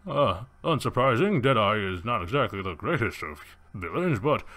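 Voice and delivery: theatrical gentleman villain sizing up a challenger; Safari. Acted. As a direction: play a grandly condescending villainous hunter. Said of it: "you see Safari, and he's like".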